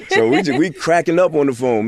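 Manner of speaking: words tumbling out through loud, high laughter; laughing. Real, not acted. Telling how he and his friend cracked up, laughing. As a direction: say it while cracking up. Laughing while retelling funny call.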